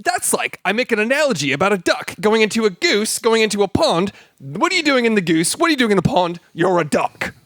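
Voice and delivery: high-pitched comic monologue impression; John Oliver. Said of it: "talks like this".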